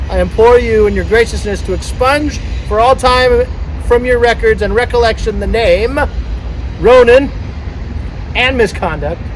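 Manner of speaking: playfully grand formal invocation; ceremonial proclamation. Pretend. Boat owner asking the sea god to erase a name, ceremonial proclamation. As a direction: proclaim it to the gods before a crowd. Reads renaming invocation aloud.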